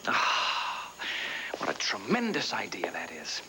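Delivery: breathy mock admiration; mock her idea under your breath; sarcastic whisper. Husband mocking Gabrielle's request, sarcastic whisper.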